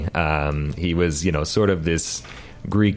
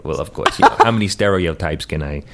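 hammed-up Jewish stereotype accent; 4 dB louder than usual. Guest jokes about offending people, Jewish accent. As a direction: kvetch in a playful Jewish accent. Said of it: "We love this accent".

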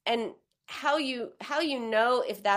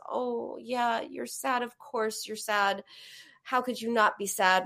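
soothing comfort; 2 semitones higher than usual. Shown as a demonstration. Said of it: "someone comes and hugs you and says".

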